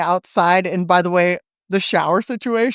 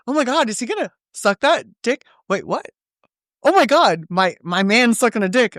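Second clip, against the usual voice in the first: higher-pitched mock disbelief; retold shock; 4 semitones higher than usual. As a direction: replay a stunned double take. Retells own shocked reaction to scene.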